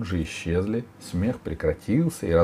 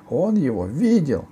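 high, loud accusation; girl crying out; 9 semitones higher, 5 dB louder than usual. A narrator's reading. Girl accusing the ogre to Sila, loud cry. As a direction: insist loudly in a high girl's voice. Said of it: "закричала Алиса".

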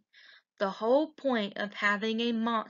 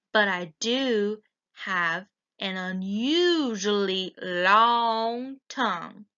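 slow, slurpy monster voice, stretching long tongue; slurping monster. Acted. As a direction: drool the words out like a slobbering monster. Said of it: "Mac slurped".

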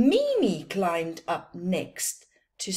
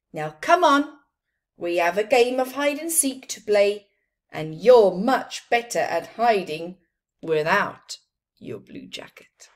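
encouraging; 8 dB louder, faster than usual. Acted. Friend cheerfully urges.

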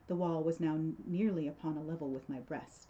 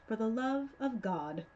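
slow, controlled, mocking repeat of the plea; cold mocking echo; 5 semitones higher than usual. Montresor coldly mocks Fortunato's plea, repeating it slowly. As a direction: savour each word as you mock him.

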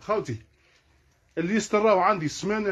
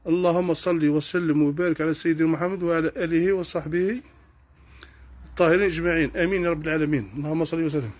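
prayer. Real, not acted. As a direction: recite the blessing unhurried and reverent. Brief blessing on the Prophet.

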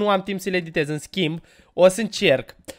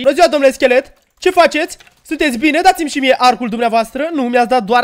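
a hint of an overly courteous gentleman, higher and louder; mock polite; 5 semitones higher, 5 dB louder than usual. Player greets a skeleton mob, mock politeness. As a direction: playfully greet the skeleton like a fine sir.

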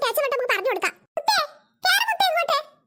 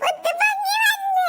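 put-on drawn-out childish cheer; gleeful calling out; 3 semitones higher, slower than usual. Child announcing to everyone that she has surfaced, gleeful. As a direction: call it out slowly and triumphantly.

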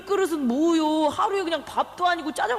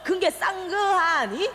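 mock Chinese accent; 3 semitones higher, slower than usual. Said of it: "짜장면이 제일 싼 거 아니야".

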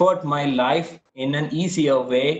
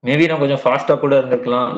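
fast talking; 5 dB louder, much faster than usual. Real, not acted. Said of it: "I got used to, like, speaking like this".

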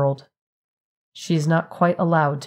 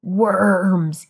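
playful conspiratorial; 3 semitones higher, 3 dB louder than usual. A narrator's reading. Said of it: "leans over to her conspiratorially".

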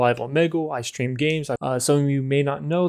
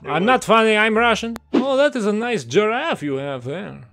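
mock Russian accent; 6 semitones higher than usual. The speaker calls himself Russian.

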